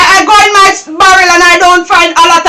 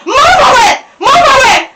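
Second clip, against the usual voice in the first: shout; 4 semitones higher than usual. Acted. Grandma shouting at granddaughter.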